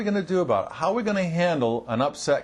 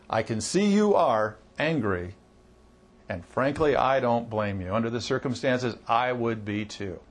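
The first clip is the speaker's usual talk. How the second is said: calm understanding; 5 semitones lower than usual. Shown as a demonstration. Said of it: "They're gonna take a step back automatically when you say".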